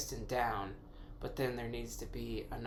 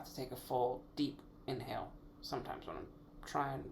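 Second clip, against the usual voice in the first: whispering; 6 dB quieter than usual. Real, not acted. Trying to meter a breath.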